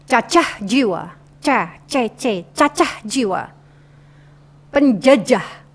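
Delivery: "Cacah jiwa" with crisp, separated C sounds; clear articulation. Shown as a demonstration. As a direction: pronounce "Cacah" and "Penjajah" distinctly, contrasting C and J. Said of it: "artikulasinya harus jelas". (artikulasi jelas "Cacah jiwa" dan "Penjajah")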